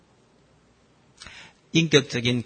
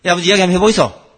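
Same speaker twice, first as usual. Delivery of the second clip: fast, louder Gyeongsang dialect retort, 이야기 falling; Gyeongsang son; 5 semitones higher, 10 dB louder, much faster than usual. Retold or imitated. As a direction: rattle it off in Gyeongsang dialect, cutting the talk short. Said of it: "그 아들 앉아가 뭐라 하는지 압니까?".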